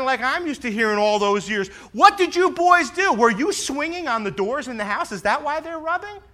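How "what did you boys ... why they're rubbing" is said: loud, high scolding father; exaggerated parental interrogation; mock stern dad. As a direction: ham up the angry dad questioning. Father scolding boys retold.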